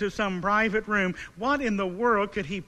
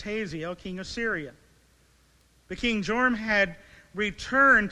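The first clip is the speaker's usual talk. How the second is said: measured, solemn Bible reading; scripture reading. Acted. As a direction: read the passage aloud with gravity. Formal scripture reading before sermon.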